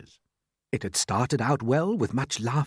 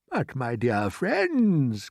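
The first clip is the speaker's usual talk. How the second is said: cheerful; much slower than usual. Acted. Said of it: "trying to be cheerful".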